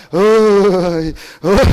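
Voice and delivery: very slow, drawn-out "어이, 어이"; weary Chungcheong grunt. Retold or imitated. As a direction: drag out a gloomy "어이, 어이". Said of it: "인생 그러다 끝나요". (충청도식으로 늘어지게 "어이, 어이")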